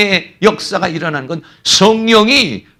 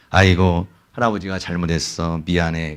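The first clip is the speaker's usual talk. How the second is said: put-on soft and low, coaxing a sulking child; grandpa soothing grandchild; 12 semitones lower, 5 dB quieter than usual. Grandfather apologizing to his sulking grandchild, softly coaxing. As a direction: gently make up with the little one. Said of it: "그 내가 가가지고".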